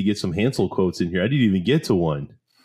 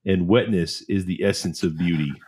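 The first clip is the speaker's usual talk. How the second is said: mock-profound model line, a touch lower; Zoolander quote; 3 semitones lower than usual. Friend quoting Zoolander, a hint of mock profundity. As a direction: finish the vapid thought with fake gravity.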